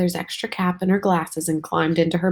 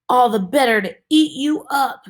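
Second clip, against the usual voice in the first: louder, higher mock wolf snarl; bare the teeth on every word; 5 semitones higher, 5 dB louder than usual. A narrator's reading. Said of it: "the wolf snarled".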